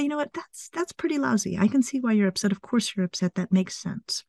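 soft, sympathetic parent voice; gentle comforting demo. Shown as a demonstration. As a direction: say it like consoling an upset kid. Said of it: "So I think to say".

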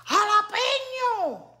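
high, slow, stretched-out call of the word; playful drawn-out exclamation; drawn-out exclaim. Real, not acted. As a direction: sing out the word like an announcement. Calls out food name, drawn out.

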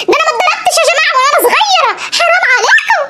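hammed-up outrage; protesting cry. Suad protesting to the grandparents, mock shout.

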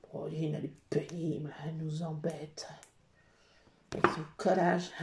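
low, soft grumble; mock grumbling. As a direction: complain under your breath, low and soft. Grumbles about herself in third person. (ronchonnement bas, à mi-voix)

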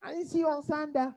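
quick imitation of a Barbadian accent, Sunday as "Sun-dah"; local Barbadian accent. Local chatting to the preacher, quick Barbadian accent. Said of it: "they say Sunday".

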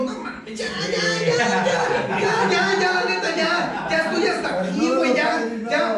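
mock-annoyed ya ya, stretched and wavering; exasperated mock whine. Fed-up boyfriend to his crying girlfriend, mock exasperated. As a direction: play the fed-up boyfriend, half laughing. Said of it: "exasperated reply to crying".

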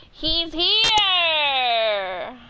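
thrilled it finally showed up; excited. Real, not acted. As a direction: gasp then a high, loud cry of joy. Excited gasp at Nightbot arriving.

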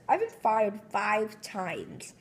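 slow, defeated sigh. Acted. SpongeBob comes home depressed, slow and sighing. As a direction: let the words sag slowly. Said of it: "he sighed".

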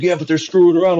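high, put-on whiny excuse; a grown man making excuses; defensive dad. A parent answering the coach, high whiny excuse.

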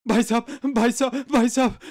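pleading. Acted. Beggar pleading with passerby.

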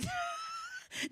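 very high trailing squeal. Real, not acted. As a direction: break off into a thin high squeal. Comic reaction mid-sentence.

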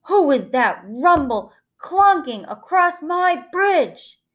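emphatic drawn-out troll demand. A narrator's reading. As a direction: challenge the trespasser as a big troll. Hungry troll challenges middle goat.

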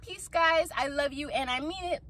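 high, soft little voice; soft sign-off. Pretend. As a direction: drop to a dainty, hushed high farewell. Soft high sign-off after big build.

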